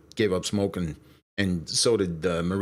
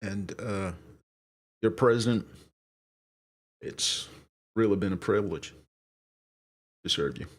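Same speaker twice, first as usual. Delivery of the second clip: light presidential impression with halting pauses; halting, understated presidential voice; Clinton. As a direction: lightly imitate a president's measured address. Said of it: "Need more raspiness on Clinton".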